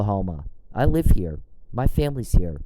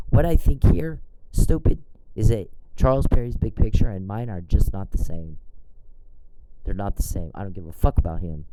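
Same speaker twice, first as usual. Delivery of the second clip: retold angry comeback. Telling Charles off, a retold angry retort. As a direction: snap "stupid" at him, then lay it down. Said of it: "And I'm like".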